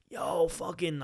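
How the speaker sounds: imitating a Long Island bro; Long Island bro greeting, lightly mocked; mock Long Island accent. Greeting an old classmate at a bar, Long Island accent. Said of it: "I'll use my fake name".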